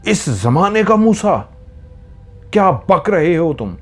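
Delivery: high, thundering rage; roaring fury. A narrator's reading. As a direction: roar it like a raging man. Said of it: "धाड़ के शदीद गुस्से में बोलता है".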